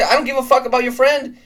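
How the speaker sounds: mock firm telling-off. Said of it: "the first thing I say".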